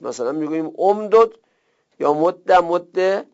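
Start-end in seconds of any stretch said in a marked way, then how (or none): 2.1-2.5 مد with doubled d ending in "a"; fatha ending. Shown as a demonstration. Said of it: "متحرک کردن حرف دوم با فتحه". 2.5-3.3 مد with doubled d ending in "e"; kasra ending. Shown as a demonstration. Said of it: "متحرک کردن به کسره".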